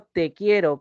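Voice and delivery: "Te quiero" with "Te" stressed as its own word. Shown as a demonstration. Teacher asking for a cup of tea, stress on "Te". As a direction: make "Te" stand out, firmly. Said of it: "con tilde en la E".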